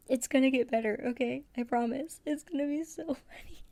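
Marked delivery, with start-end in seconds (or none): 2.3-3.6 giggling. Real, not acted. Giggling about the fox.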